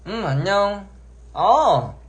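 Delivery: 높고 크게 애교 섞인 안녕; 팬에게 애교 부리듯 인사; cute aegyo voice. Shown as a demonstration. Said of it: "이렇게 하는 거죠". (애교 섞인 높은 인사)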